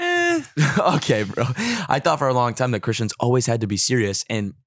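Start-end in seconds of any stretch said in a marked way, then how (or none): 0.0-0.4 high-pitched goofy "eh"; silly high noise. Pretend. Guest goofing mid-thought, high silly squeak.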